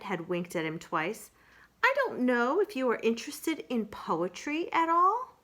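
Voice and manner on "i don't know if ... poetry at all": higher, louder bear voice; Pooh voice. Acted. Pooh hints about poetry to Kanga, higher. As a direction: ask shyly, as the simple bear.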